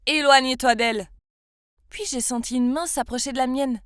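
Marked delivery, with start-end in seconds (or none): 0.1-1.1 un cri fort à travers la salle; crie-le pour l'arrêter net; crié. Acted. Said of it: "criait depuis la cafétéria". (un garçon crie à la brute depuis la cafétéria, fort)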